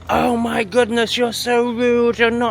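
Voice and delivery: high, slow whiny mock voice; mocking critic. Mocking a viewer who calls him rude, in a high whiny voice. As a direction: parrot the critic as a prissy whiner.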